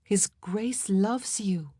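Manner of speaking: gentle, deliberate insistence; assuring. Acted. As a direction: reassure her, taking your time. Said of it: "Madge assured her".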